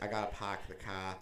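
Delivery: hammy Boston "pahk the cah"; put-on Boston accent; fake Boston accent. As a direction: drop the r's like a Boston cliché. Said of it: "I do a fake Boston accent".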